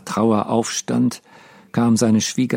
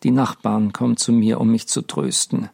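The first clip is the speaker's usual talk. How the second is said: grieving lament; 3 semitones higher than usual. Acted. Mendel to his dead wife Deborah, a heavy grieving lament. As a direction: pour out his grief to the dead.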